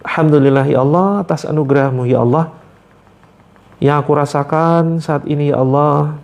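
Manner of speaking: prayer demo. Shown as a demonstration. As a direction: pray it earnestly, drawing out ya Allah. Demonstrates the prayer to say. (doa yang khusyuk dan pelan)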